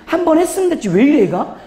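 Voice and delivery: acted impatience, starting high; annoyed retort. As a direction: play a mildly irritated D type. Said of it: "D 유형은 짜증내". (짜증 내는 흉내)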